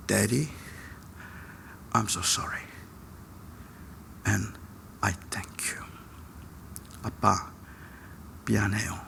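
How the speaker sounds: soft, low, halting son's voice; hushed, hesitant thanks and apology, retold; subdued apology. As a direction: apologize quietly with long pauses between phrases.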